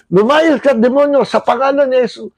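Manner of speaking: firm, strong rebuke. Shown as a demonstration. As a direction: command it with full authority. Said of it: "Ulit nga ho".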